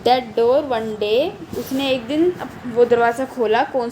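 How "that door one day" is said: slow poem reading. Acted. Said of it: "तो उसने बोला".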